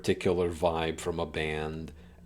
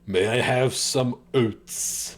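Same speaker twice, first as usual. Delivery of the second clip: pig voice; 5 semitones higher, 4 dB louder, slower than usual. Pretend. Acting pig voice request.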